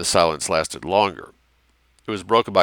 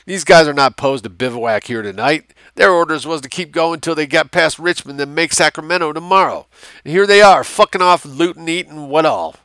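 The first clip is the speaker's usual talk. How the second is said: drawled; 7 semitones higher, 5 dB louder than usual. A narrator's reading. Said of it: "the white civilian drawled".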